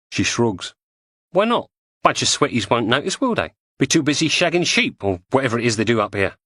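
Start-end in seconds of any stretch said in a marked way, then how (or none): 1.3-6.4 higher, brighter estuary woman; lightly voiced cockney woman; Julie's voice. Julie mocks the locals.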